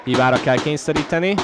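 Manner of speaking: normal talking voice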